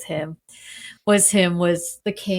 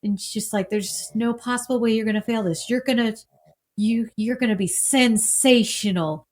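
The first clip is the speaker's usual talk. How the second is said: reassuring; 2 semitones higher than usual. Retold or imitated. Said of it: "she's nervous, and he says".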